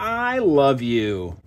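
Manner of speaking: slow, tender I love you. Real, not acted. Parent tells toddler she loves her.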